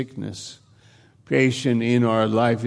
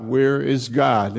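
crying out. Retold or imitated. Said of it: "they're crying out".

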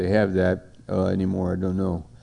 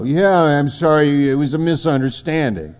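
mock excuse; 5 semitones higher than usual. Hypocrite brushes off the accusation.

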